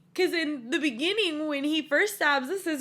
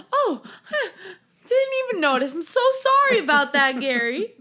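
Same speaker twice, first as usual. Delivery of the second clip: lightly voiced sheepish apology to the coworker; overly polite; 3 semitones higher, 4 dB louder than usual. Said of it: "he's so polite".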